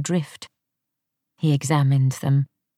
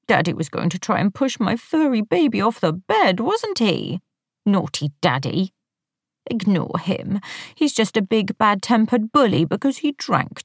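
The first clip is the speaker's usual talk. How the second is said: lightly voiced grating baby talk, higher; a hint of a grating girlish voice; grating little girl voice; 4 semitones higher than usual. A narrator's reading. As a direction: coo like a whiny little girl to the cat. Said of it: "in a grating little girl voice".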